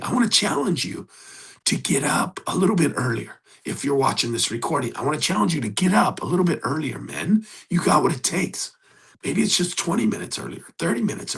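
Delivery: rally them out of bed; urgent challenge. Real, not acted. Coach urging viewers to wake early, fired-up.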